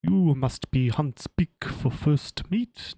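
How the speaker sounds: slow, loud, put-on military voice; weird officer voice. Shown as a demonstration. GM trying a slow odd voice for Gant. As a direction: drag it out like a stiff officer.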